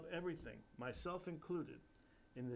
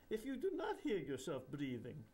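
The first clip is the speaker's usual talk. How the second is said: put-on Indian accent through giggles; giggling Indian guru. Guru giggling at the floating narrator, Indian accent. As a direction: laugh the words out like a mischievous guru. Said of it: "he giggles".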